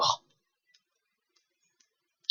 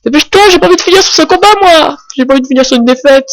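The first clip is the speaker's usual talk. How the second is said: hurried; 6 semitones higher, much faster than usual. Real, not acted. Rushing through a losing battle.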